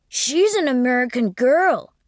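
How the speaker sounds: put-on high childish voice; proud small boy; little boy. A narrator's reading. Boy boasting of his sister, high voice.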